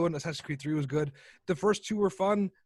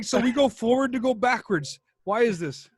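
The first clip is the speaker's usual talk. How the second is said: incredulous question; 4 semitones higher, 4 dB louder than usual. Retold or imitated. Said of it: "so I'm like".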